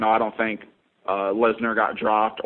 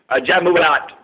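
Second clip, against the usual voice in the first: imitated fighter's reply; 5 semitones higher, 4 dB louder than usual. Imitating fighter repeating coach's order.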